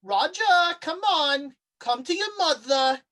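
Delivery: high, loud, coaxing creature calling a name; eerie Mama voice. Acted. GM as the monster calling to Raja, high and coaxing. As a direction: lure him in like a hungry mother.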